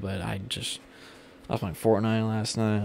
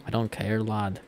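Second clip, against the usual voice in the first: understated British accent attempt; carefully retry the British "lad" at normal volume; lightly imitated British accent; retried British accent. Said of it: "that's not even how it actually sounds".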